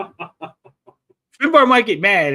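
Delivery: slow, put-on Scottish accent, barely tried; a joking stab at a Scottish accent; half-hearted Scottish accent. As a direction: drawl the line in a tentative Scottish accent. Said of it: "attempt a Scottish accent".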